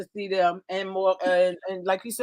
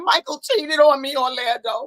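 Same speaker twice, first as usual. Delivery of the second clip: retold accusation; 4 semitones higher, 4 dB louder than usual. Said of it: "I said".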